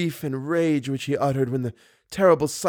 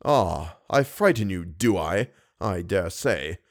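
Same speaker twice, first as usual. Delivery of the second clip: hissing; 7 semitones lower, slower than usual. A narrator's reading. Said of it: "he hissed at me".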